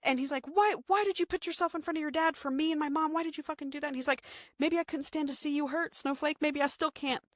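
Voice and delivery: high-pitched emotional retelling of the lovers; voicing the lovers' reunion.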